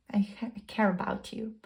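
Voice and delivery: soft breathy whisper of tender care. Pretend. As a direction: breathe it like a secret confession. Whispered tender confession in message.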